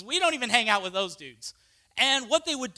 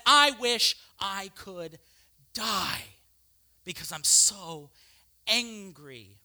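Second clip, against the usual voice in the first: slow bitter wish; 3 semitones lower, slower than usual. Acted.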